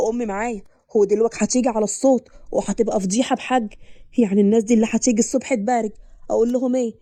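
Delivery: a hint of a flustered groom pleading to keep it down; husband's voice. Narrator voices husband Hashem.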